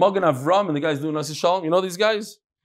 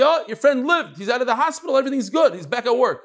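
excited good news; 6 semitones higher than usual. Retold or imitated. Relieved news told to faster.

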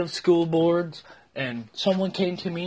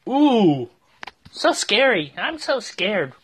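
sarcastic mock fear; 4 semitones higher, 3 dB louder, much slower than usual. Real, not acted. Sarcastic at threat.

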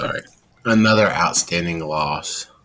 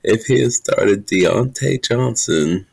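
laughing; much slower than usual. Real, not acted. Cracking up reading tiny number.

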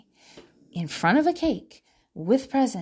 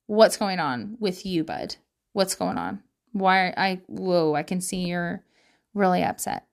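calm gentle parent; 5 semitones lower than usual. Shown as a demonstration. Parent modelling a calm talk with an upset son. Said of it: "The question should be".

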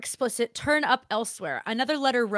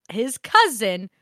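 cousin said louder and leaned on; stress on cousin; 5 dB louder, slower than usual. Shown as a demonstration. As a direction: put weight on "cousin". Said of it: "let's make that emphasis on that".

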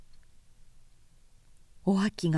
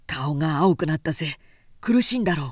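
lower, louder man's voice cutting in; firm stop; 5 semitones lower, 5 dB louder, faster than usual. A narrator's reading. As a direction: stop her drinking, firmly. Worried man.

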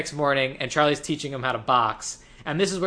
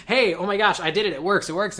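higher, eager imitation of a breakthrough; retold excitement; 5 semitones higher than usual. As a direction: act out a kid's excited discovery. Retelling boy's excited discovery.

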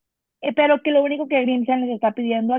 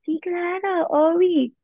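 playing dumb; 5 semitones higher, much slower than usual. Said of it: "se hace súper mensa".

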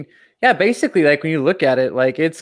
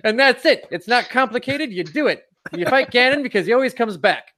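put-on very old man; 9 semitones higher than usual. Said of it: "very old man on a porch scenario".

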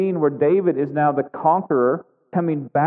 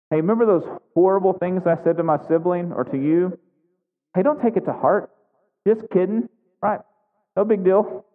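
a lightly voiced kid brushing it off, pitched higher; childish excuse; 4 semitones higher than usual. Pastor imitating a child excusing hurtful words, pitched higher. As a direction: play the sheepish child saying never mind. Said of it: "sounds like something your child would say".

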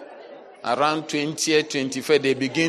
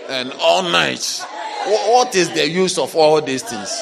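loud exasperated complaint; hammed-up grievance; mock frustrated shout; 5 dB louder than usual. Voicing the frustrated faster.

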